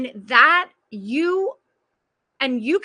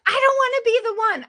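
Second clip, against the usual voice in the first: much higher, whiny protest; mock tantrum whine; 9 semitones higher, 4 dB louder, faster than usual. Woman on the call protesting she must change, mock tantrum whine. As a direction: whine it like a sulking child. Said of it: "of that tantrum".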